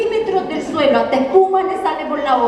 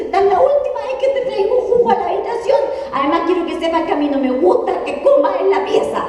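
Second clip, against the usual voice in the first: higher, mock stern mom; mother's voice; 4 semitones higher than usual. Mom warns daughter in her room, higher mock stern voice. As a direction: play the fed-up mom, lightly. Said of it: "llega a la pieza y me dice".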